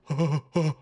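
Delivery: short huffed breaths; imitated startled panting. Boyfriend startled while peeing, imitated nervous huffing. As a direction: puff out little nervous breaths.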